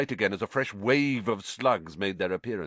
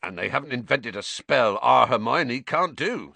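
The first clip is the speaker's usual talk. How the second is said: proud; 5 semitones higher, 5 dB louder than usual. A narrator's reading. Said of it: "said Hagrid proudly".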